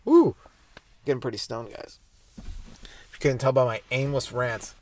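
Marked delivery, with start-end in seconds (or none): 0.0-0.3 sudden high, loud whoop. Real, not acted. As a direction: let out a happy stoned cheer. Stoned host whoops to himself.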